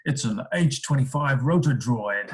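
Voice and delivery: lightly put-on American voice for a gadget name; playful American twang; mock American accent. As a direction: announce it with a hint of an American accent. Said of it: "say that in an American voice".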